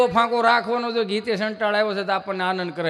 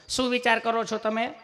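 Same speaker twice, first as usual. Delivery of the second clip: higher, gentle nurse voice; sweet nurse; 4 semitones higher than usual. Retold or imitated. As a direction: ask kindly like a caring nurse. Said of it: "સહજતાથી પૂછતા હોય એમ જ પૂછે".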